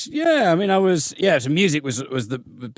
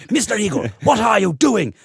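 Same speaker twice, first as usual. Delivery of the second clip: higher-pitched imitation of a stern schoolmistress; posh authoritative teacher; 6 semitones higher than usual. Music teacher stopping the class to challenge a pupil, posh and stern. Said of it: "very posh, kind of authoritative teacher".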